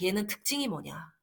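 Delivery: ordinary talk, nothing marked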